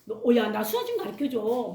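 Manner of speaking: put-on curious kid. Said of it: "친구들이 궁금해".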